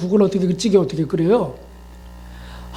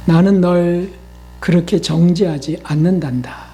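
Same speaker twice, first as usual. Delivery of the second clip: gentle voice of the Lord; 2 semitones lower than usual. Retold or imitated. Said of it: "이 주님이 하시는 거예요".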